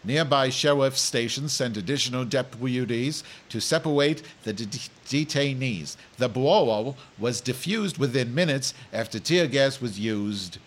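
news anchor with a comic speech impediment; lightly hammed-up newsreader; mock news read. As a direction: read the headlines with r and l softened to w. Reads news as Madge.

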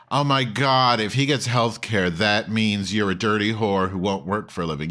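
loud, sneering mock outrage; mocking Republicans. Host mocking Republicans in a loud outraged sneer. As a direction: ham up a scandalized conservative. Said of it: "like saying".

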